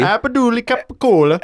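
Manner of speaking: high mock Italian-deli Abduli Capicola; silly high name. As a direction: squeal it like a cured-meat brand. Turning name into deli meat.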